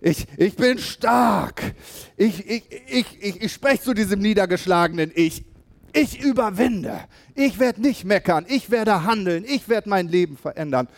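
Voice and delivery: retold declaration, from hesitant to triumphant; building to a bold declaration. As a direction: go from unsure to shouting it out. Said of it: "Und sie so".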